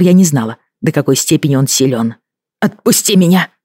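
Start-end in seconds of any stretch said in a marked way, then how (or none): 2.6-3.5 shouting. A narrator's reading. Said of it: "закричала я".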